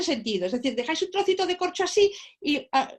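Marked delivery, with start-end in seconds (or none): none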